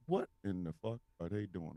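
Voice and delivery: mother aghast. Retold or imitated. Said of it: "my mother's like".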